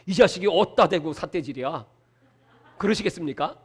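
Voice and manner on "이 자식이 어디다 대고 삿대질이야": a lower, softer mock rebuke from God; mock angry God. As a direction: play God snapping back, half in jest. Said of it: "하나님이 뭐라고 대답하실 것 같습니까?".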